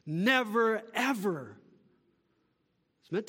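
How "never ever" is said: "Never" and "ever" set apart, each stressed; emphatic NEVER EVER. Shown as a demonstration. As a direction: land separately on "Never" and "ever". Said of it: "as emphatic as you can get".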